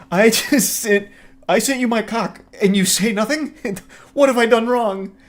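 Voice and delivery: high, wounded, hammed-up whining; mock hurt whine. He imagines being ignored after a pic, mock whining. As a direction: play the jilted sender, pitifully. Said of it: "I'm crying in my bathtub".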